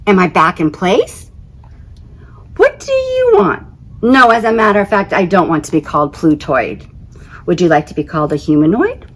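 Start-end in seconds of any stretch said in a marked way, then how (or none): 2.6-9.1 irritated retort. Acted. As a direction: tell the scientist off quickly. Snapping at scientist on phone.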